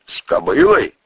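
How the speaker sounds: boss voice. Acted. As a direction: boss digging for details. Boss asks.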